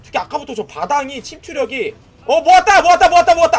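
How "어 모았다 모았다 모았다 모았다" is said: loud high victory yell; triumphant shout. Real, not acted. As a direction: cheer the big catch. Celebrating big combo. (환호하며 외침)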